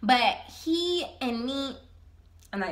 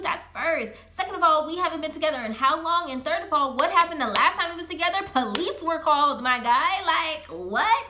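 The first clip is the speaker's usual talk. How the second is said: indignant rant; 2 semitones higher than usual. Retold or imitated. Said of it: "I got so mad".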